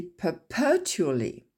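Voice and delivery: perpetually with no accent on tually; teacher's word-stress model; stress not on tually. Shown as a demonstration. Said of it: "on ne va pas mettre l'accent tonique sur tually".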